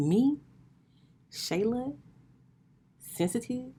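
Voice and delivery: high, loud, outraged squeak of "Me?"; shocked disbelief. Retold or imitated. Retelling friend's claim she's sensitive, incredulous. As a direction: act stunned and offended. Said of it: "And I was like".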